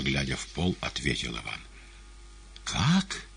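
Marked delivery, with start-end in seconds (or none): 2.6-3.3 high shocked exclamation; startled high outcry; startled cry. A narrator's reading. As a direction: blurt it out in shock. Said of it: "крикнул гость".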